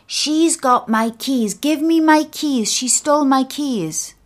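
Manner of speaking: put-on high, loud old man's protest; indignant demand. A narrator's reading. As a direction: demand them back, accusing her. Confused old man accuses, demands keys.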